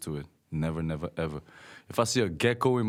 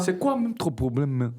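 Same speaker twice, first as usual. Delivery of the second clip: much higher mock Togolese complaint ending on ma; Togolese French; 8 semitones higher than usual. Teasing with Togolese street French, high mock complaint. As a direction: toss the ma on the end. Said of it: "It's not ma".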